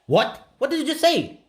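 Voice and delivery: high, incredulous laughing disbelief; what on earth, said with a laugh; surprised. Real, not acted. Stunned by the glitching radio.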